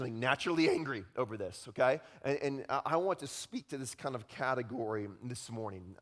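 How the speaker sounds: usual speaking voice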